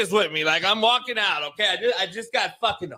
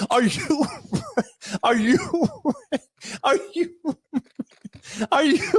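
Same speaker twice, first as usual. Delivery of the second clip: laughing through it; 3 semitones higher than usual. Retold or imitated. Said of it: "Stephanie voice breaking into laughter".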